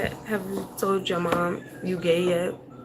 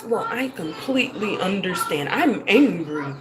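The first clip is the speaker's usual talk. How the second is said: mock calm composure. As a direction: fake politeness, drained of feeling. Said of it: "I don't need to be like".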